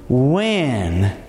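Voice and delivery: "When" set apart, low and final after a pause; stress on when. Shown as a demonstration. Preacher to his friends, stressing "When" as sure faith. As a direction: land the single word "When" as certain. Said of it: "Not if, not maybe".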